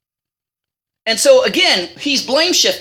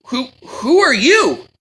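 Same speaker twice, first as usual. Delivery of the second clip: reading Isaac; 4 semitones higher, slower than usual. Retold or imitated. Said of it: "his father Isaac said".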